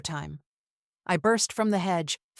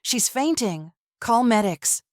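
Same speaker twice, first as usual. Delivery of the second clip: loud, urgent call for medics; shouting for help; 4 semitones higher, 4 dB louder than usual. Acted. Friend catching her, shouting for the paramedics. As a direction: yell for help as she drops.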